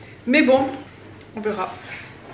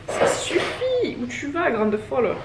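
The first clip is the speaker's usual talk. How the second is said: mock boyfriend voice; 3 semitones higher, much slower than usual. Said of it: "Il m'a dit".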